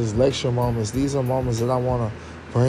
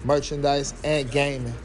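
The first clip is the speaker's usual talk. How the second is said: ad read; 2 semitones higher, 3 dB quieter than usual. Acted. Plugs the podcast like an ad.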